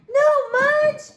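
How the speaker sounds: high, loud no of alarm; dismayed cry. Acted. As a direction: cry out too late to stop him. Dog eats the flower.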